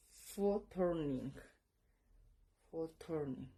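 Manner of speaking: Fotorning slow, then repeated; pronouncing Fotorning. Shown as a demonstration. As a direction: model Fotorning for learners. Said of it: "Y se pronuncia".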